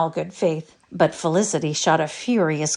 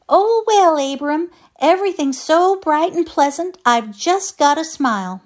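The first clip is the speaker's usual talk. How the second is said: put-on high, louder bright little old lady; cheerful old wife; 11 semitones higher, 6 dB louder than usual. A narrator's reading. Old wife answers her grumpy husband, cheerful. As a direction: beam it out, sunny and unbothered. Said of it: "She was always smiling".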